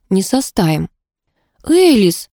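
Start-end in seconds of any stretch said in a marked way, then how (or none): 1.7-2.3 high gasped name; surprised gasp. A narrator's reading. Heroine gasps on seeing her friend, surprised. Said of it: "ахнула я".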